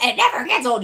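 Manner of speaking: laughing through the words; a bright laugh while repeating it. Real, not acted.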